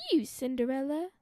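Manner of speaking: scornful stepmother voice; wicked stepmother. Acted. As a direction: sneer at the girl. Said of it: "cried the stepmother".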